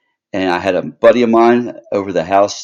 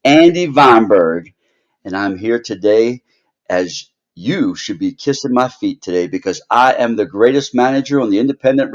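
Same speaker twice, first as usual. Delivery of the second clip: shrill gloating wrestling manager; 5 semitones higher than usual. Acted. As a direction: brag like a heel manager cutting a promo. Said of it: "let me do the proper introduction".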